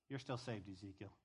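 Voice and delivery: God quietly reassuring the prophet; soft reassuring God. Acted. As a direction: hush it down to comfort him. God voiced reassuring Ezekiel.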